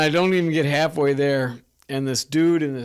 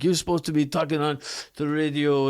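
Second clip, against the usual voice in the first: put-on French accent. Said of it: "stern accent".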